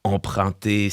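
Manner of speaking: usual speaking voice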